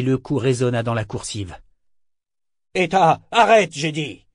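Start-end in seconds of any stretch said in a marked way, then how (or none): 2.7-4.3 loud, high shout to stop; appalled cry. A narrator's reading. Kénit tries to stop Eta, crying out appalled. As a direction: cry out in dismay and command. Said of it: "s'écria Kénit, atterré".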